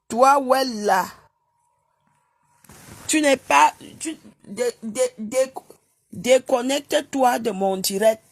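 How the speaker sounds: loud, stumbling angry command; angry yelling. Real, not acted. Yelling at a viewer to leave her live, loud and furious. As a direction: shout him off the stream.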